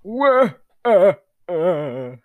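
high, loud Waluigi "wah"; Grandpa Waluigi wail. Acted. Grandpa Waluigi cries out at you, high and loud. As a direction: squeal it out like a startled Waluigi. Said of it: "Grandpa Waluigi's like".

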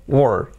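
"were" as "wur", no e; vowels dropped. Shown as a demonstration. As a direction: model "were" as W running into R. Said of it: "las es fuera". ("were" sin es, solo consonantes)

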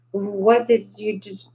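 slow, stammered words through sobs; choked sobbing. A narrator's reading. Victoria choking out her question between sobs. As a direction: choke it out, breaking. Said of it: "choked the words out between sobs".

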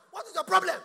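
high, loud laughing outburst; mock exasperation; laughing shout. Real, not acted. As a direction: burst out laughing at them.

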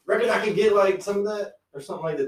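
high, loud hammed-up Southern voice; mock Virginia drawl. Friend mocking Virginians, high loud Southern imitation. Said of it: "They say something like".

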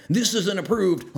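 mock the nitpickers while cracking up; laughing mock scold. Mocking nitpicking members.

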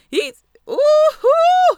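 high, slow swooning coo; swooning ooh-hoo. Acted. Gushing over John Boyega, a high slow swoon. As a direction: coo as if the crush got to her.

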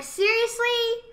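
high, slow disbelieving whine; annoyed ugh. Retold or imitated. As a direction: drag it out in disbelief. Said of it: "But I was just like".

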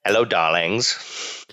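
slow, drawn-out Edna impression; lightly voiced fashion designer.

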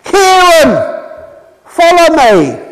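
lightly voiced shepherd calling a name. The good shepherd calling one of his sheep, a light calling voice. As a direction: call out gently but clearly, as if across a field. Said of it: "he calls them by name".

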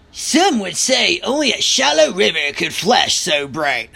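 otherworldly storybook fairy voice; fairy woman. A narrator's reading. Fairy woman remarking on Matthew's looks, in character voice. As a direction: voice her words as a remembered fairy pronouncement.

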